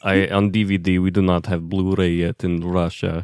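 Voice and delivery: lightly put-on Russian accent, unhurried; a hint of a Russian accent, joking with friends. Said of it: "Give us your best Russian accent".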